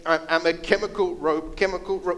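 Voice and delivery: halting, stuttering robot speech; glitchy robot repeating itself; toy robot voice. Acted. Staged robot skit on stage.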